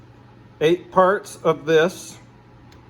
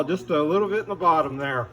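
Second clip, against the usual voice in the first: muffled by a paint mask; talking through a respirator mask; faster than usual. Real, not acted. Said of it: "Sorry, I still got my mask on".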